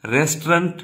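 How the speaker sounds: Restaurant said as two syllables, rest-rant; correct pronunciation. Shown as a demonstration. Teacher repeats the right Restaurant. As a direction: Restaurant with the o dropped. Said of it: "is the actual pronunciation".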